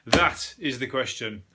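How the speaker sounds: slow, hammed-up Shakespearean line; milk it like a stage tragedian, slowly; mock Hamlet. Hamlet line on wallaby doubt.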